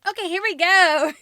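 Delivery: bright, loud burst of excitement; excited. Real, not acted. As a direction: kick it off hyped up. Excited start of unboxing.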